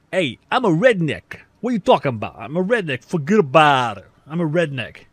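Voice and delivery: loud, hammed-up New York accent; mock New York accent. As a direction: play a brash Brooklyn guy insisting he's Southern. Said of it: "You sound northern".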